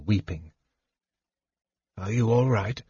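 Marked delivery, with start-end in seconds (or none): 2.0-2.8 soft, caring check-in; gently. A narrator's reading. Old wizard comforting the kender in the dark, gently. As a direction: ask it quietly, with concern. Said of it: "Fizban asked Tasselhoff gently".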